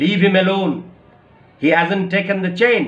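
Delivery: disgusted. Acted. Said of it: "তিতিবিরক্ত হয়ে গেছে".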